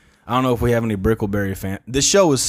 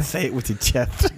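slow meme delivery, odd voice; say it with your chest; 2 semitones higher, slower than usual. Pretend. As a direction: push it out slowly from the chest. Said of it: "You should say it with a lisp".

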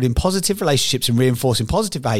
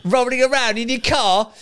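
online troll; 10 semitones higher than usual. Acted. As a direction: drag it out like a sanctimonious critic. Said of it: "I know what you're thinking. You go".

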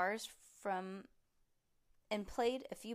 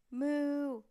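long, loud, higher moo; big cow moo; 5 semitones higher, 7 dB louder than usual. A narrator's reading. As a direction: blast a tuba note like a cow. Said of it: "It sounded like a cow".

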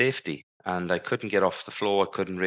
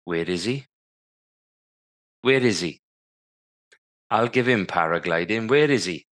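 hammed-up angry mother storming the ward. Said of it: "And the voice said".

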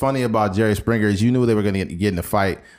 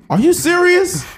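high, loud mock disbelief; mock shock; 5 dB louder than usual. Guest hearing the reveal, high mock shock. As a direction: shriek the question in fake shock. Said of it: "acted talk show reveal".

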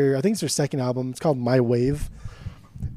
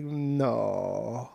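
Mexican cleaning lady; 4 semitones lower, 9 dB quieter than usual. Retold or imitated. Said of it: "No Mexican cleaning lady from Family Guy, and she's always like".

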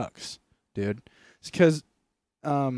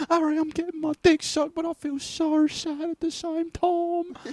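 hammed-up Ron. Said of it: "Ron voiced again".

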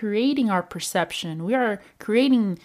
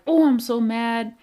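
mock anger; 2 semitones higher, faster than usual. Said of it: "Not when we're like".

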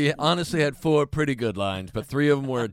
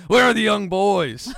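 slow, louder, laughing yell; mock yell; 6 semitones higher, 7 dB louder, slower than usual. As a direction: yell it slowly while laughing. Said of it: "you started yelling at".

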